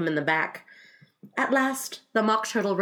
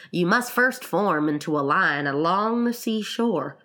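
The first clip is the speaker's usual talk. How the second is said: Gryphon character voice; 3 semitones lower than usual. Acted. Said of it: "said the Gryphon".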